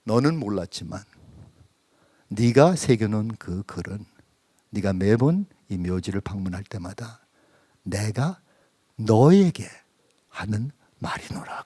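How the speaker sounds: lightly voiced Lord, low, ending in a whisper; a gentle hint of God speaking tenderly; quiet voice of God. God telling the father the epitaph was His word to him, soft and low. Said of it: "주님의 음성이 다시 한번 들린 거예요".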